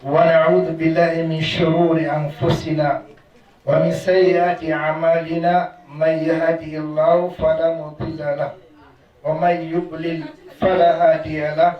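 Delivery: rapid formulaic Arabic recitation, fast and steady; fast memorised prayer formula; sermon opening recitation. Acted. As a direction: rattle off the opening praise like a practised imam.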